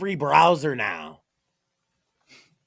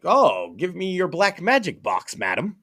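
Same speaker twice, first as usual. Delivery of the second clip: clueless customers; 2 semitones higher than usual. Retold or imitated. Boomers asking a computer seller for magic, mock awe. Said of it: "They were like".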